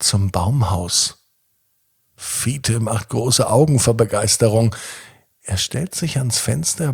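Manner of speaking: calm bedtime storytelling voice; sleep story narrator. A narrator's reading.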